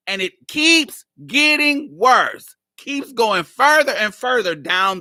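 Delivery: laughing. Real, not acted. Laughing at absurd chat.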